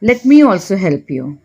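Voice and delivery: very slow, every word laid out clearly; slow model phrase. Shown as a demonstration. Teacher slowly models an English apology for Hindi learners. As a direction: say it slowly so learners can repeat it. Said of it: "तो मैं कहूँगी".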